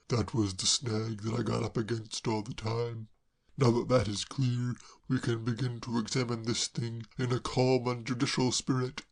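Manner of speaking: a hint of a puzzled gentleman; mildly baffled; lightly voiced Braddock. Braddock puzzled by Claire, mildly baffled.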